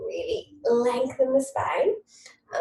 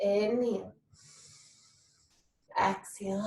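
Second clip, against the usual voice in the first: calm yoga guidance; slower than usual. Real, not acted. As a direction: guide the breath gently. Guiding breathing.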